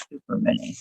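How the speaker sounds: soft breathy whisper on the repeat. Real, not acted. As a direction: whisper it for emphasis. Repeats super mini, whispered.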